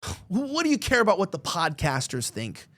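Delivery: imitating a sneering question; mock the critics with their dismissive question. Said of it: "they keep making this mocking statement".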